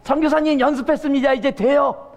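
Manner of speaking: proud villagers announcing they practiced; eager villagers. Retold or imitated. Villagers report to missionary.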